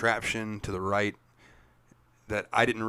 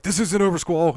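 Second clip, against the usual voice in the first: put-on much higher, louder, bratty kid yelling back; childish taunt; 9 semitones higher, 10 dB louder than usual. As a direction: shout it like a sulky little kid. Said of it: "like a little kid".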